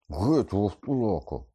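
slow, loud, high cry; groaned outburst. A narrator's reading. Ron in pain drives the werewolf away, groaned cry. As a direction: groan it out loudly, repelling him. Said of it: "Рон простогнав".

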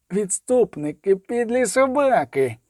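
slow, rising, spat-out insults; furious insults. A narrator's reading. Daker cursing the deserters in slow, mounting rage. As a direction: drag out each insult in rage.

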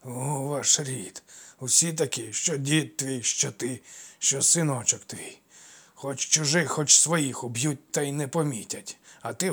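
menacing taunt. Acted. Craftsman taunts and threatens.

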